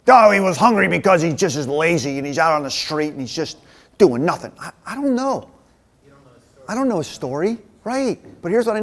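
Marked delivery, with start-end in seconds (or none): 0.1-4.5 lightly mocking objection, running on; dismissive objector. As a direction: put on a scoffing objector's voice.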